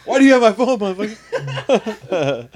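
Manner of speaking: high-pitched laughing through the words, stretching the last word slowly. Real, not acted. Laughing at friend who took his phone. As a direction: laugh it out at your buddy.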